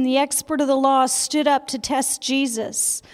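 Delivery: reading through a laugh. Real, not acted. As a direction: chuckle through the verse. Laughing while reading the verse.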